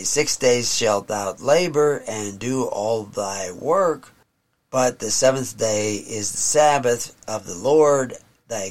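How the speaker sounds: put-on slow, measured reading of the old text; solemn scripture reading. Preacher reading scripture to his congregation, slow and solemn. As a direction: read it like holy writ, unhurried.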